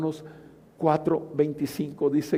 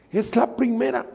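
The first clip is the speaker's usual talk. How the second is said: higher and louder, proclaiming; rising emphasis; 9 semitones higher, 3 dB louder than usual. Acted. Preacher to congregation, higher and louder proclamation. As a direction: drive the repeat home, louder. Repeats phrase, louder second take.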